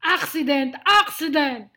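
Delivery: loud, indignant growl; lion's growl. Acted. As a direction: throw the word back as a growling lion. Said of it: "growled Lionel".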